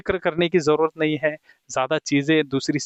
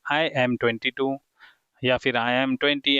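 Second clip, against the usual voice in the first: slow model sentences; slow dictation; much slower than usual. Shown as a demonstration. Teacher modelling names for students, slow and deliberate. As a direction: spell it out slowly for beginners.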